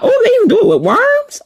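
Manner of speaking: high, fast, laughing shock; laughing disbelief. Real, not acted. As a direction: squeal it out in amused horror. Shocked reaction to own reading.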